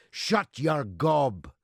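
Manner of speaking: slow, loud retold heckle; retold shout. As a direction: bellow it slowly, as a quoted order. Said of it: "shouted at the left-wing leader".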